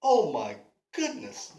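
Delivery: low, admiring oh my goodness; Oh my goodness said low and smitten to the pretty lady; charmed gasp. Acted. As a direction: breathe out Oh my goodness, taken by her. Davy admiring the woman.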